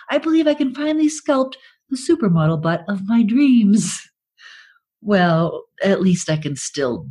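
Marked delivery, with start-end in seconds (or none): 0.1-4.0 infomercial. Pretend. Infomercial testimonial.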